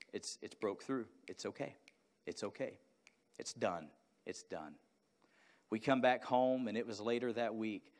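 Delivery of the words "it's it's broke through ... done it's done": soft, hushed reassurance; quiet and tender, letting it settle; the Lord's gentle voice. Retold or imitated. Recalling God's voice in prayer, hushed and reassuring. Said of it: "I felt the Lord say".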